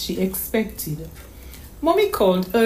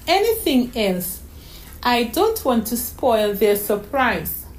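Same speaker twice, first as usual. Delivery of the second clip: put-on little girl's voice; 5 semitones higher than usual. Daughter missing her mother on the phone, wistful. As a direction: stammer like a sad small girl. Child voice.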